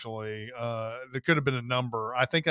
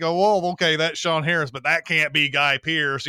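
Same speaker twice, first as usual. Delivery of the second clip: disbelieving double take; 3 semitones higher, 6 dB louder than usual. Acted. Acted viewer's double take.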